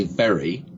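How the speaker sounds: "very" with a clear V; teeth-on-lip V. Shown as a demonstration. Coach shows mouth shape, clear V in "very". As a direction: bite the bottom lip to start "very". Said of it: "teeth are going on your bottom lip".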